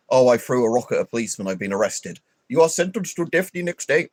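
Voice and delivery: hammed-up Indian accent. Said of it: "I'm doing it in Indian voice".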